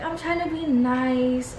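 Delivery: high, drawn-out weepy imitation; mock tearful. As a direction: imitate pleading through tears. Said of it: "tears start coming down her face".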